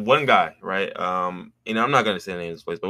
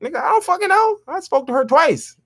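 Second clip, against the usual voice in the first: much higher, exasperated retort. Retold or imitated. To the creepy coworker, a high exasperated retort. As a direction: throw it back at him, baffled and fed up. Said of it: "I'm looking at him like".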